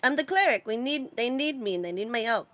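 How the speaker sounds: lightly put-on Russian accent; cute Russian accent. Cleric insisting she is needed, cute hint of Russian accent. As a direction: attempt a little Russian accent, cutely. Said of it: "what kind of accent do you have".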